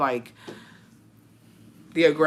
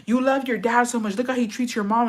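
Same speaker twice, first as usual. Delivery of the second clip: higher-pitched imitation of a bitter mother; mock reproachful mom; 5 semitones higher than usual. Mom accusing her child of loving dad, imitated reproach. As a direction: lightly mimic a mom's accusing jab. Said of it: "She's like".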